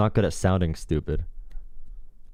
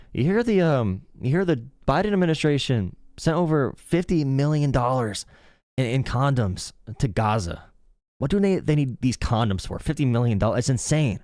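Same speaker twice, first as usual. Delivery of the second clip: Joe Rogan impression; 5 semitones higher than usual. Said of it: "How do I do, like, a Joe Rogan impression?".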